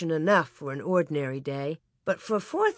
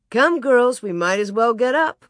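put-on raised-voice call to the girls; 4 semitones higher, 5 dB louder than usual. Ma to the girls at dawn, calling. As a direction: call them up out of bed. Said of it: "Ma called".

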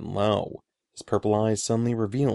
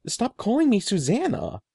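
shouted; 9 semitones higher than usual. A narrator's reading. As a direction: yell at him to stop. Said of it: "I shouted".

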